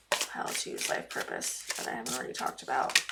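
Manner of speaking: whispered repeat, muttered under her breath; whispered to herself. Real, not acted. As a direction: whisper it to yourself while thinking. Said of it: "I wanna see anything else for pile two's life purpose".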